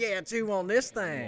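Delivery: a hint of a goofy guy drawling; mock slow voice. Retelling his reply in a goofy slow voice. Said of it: "And he said".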